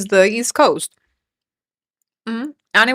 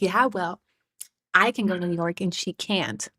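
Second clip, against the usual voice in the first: mock high-school brat; 4 semitones lower, 8 dB quieter than usual. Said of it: "so fucking high school to me to be like".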